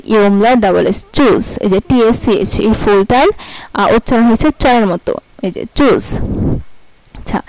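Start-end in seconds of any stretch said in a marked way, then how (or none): 1.1-1.6 "চুজ" with tsch as ch; German word tschüss. Shown as a demonstration. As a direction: read the example.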